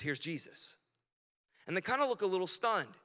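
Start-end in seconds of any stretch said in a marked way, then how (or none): 0.0-0.7 low, soft, hushed words; tender hushed reveal. Retold or imitated. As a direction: say it gently over the boy. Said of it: "She says".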